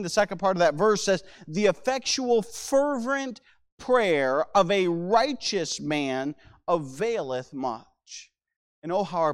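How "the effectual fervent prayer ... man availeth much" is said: scripture reading. Acted. Preacher quotes James on prayer, slow scripture reading. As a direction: draw out each weighty word.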